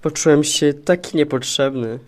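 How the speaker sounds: low, glum character voice; dejected. Acted. Krwinek hurt by the boss's words, dejected. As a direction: sink down, feeling unwanted. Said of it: "Stwierdził strapiony tymi słowami Krwinek".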